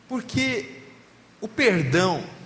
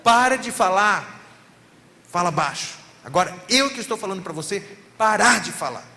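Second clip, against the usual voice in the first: a pastor reliving his annoyance at the husband, louder and clipped; irritated; 3 semitones higher, 5 dB louder than usual. Retold or imitated. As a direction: snap at him, annoyed. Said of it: "eu tava irritado".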